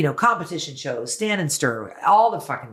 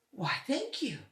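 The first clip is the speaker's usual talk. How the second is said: whispered thanks; 11 semitones higher, 12 dB quieter than usual. Retold or imitated. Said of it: "And he goes".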